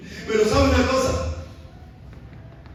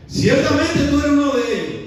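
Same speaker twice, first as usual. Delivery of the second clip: accusation; 4 semitones higher, 4 dB louder than usual. Acted. Otro acusa a Pedro.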